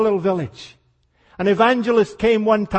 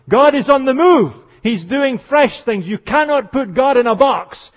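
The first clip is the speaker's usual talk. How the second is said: louder, higher, insistent; fervent sermon climax; full preaching; 3 semitones higher, 3 dB louder than usual. Real, not acted. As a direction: preach it with rising force.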